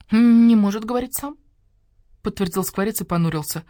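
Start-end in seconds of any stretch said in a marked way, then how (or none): 0.1-1.4 high, loud echo of the sentence; the starling echoes the badger, high and loud; parroted line. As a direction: repeat it back like a parrot.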